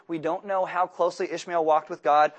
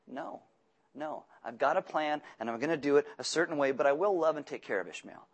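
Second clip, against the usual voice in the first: gentle refusal. Acted. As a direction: let him down gently, hushed. God answering Abraham's plea.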